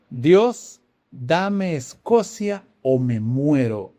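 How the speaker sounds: slow, deliberate retold plea to God; fervent prayer. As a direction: recite an impassioned prayer, drawing the words out. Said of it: "John Knox oraba con fuego".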